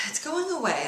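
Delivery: relieved, after a heavy exhale; sighed relief. Pretend. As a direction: sigh out, then speak with relief. Tapping script, easing stress.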